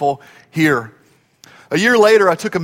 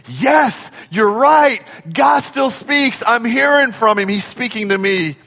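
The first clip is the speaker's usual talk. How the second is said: emphatic agreement; 2 semitones higher than usual. Retold or imitated. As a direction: voice a confident, agreeing believer. Voices agreeing congregants.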